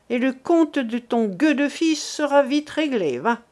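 a lightly voiced furious accuser; angry old man. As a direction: spit it at her like an enraged accuser. Combes rails at Millette.

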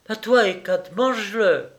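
put-on girlish "sic him" call; playful attack command. A narrator's reading. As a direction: egg the dog on. Sets the dog on him.

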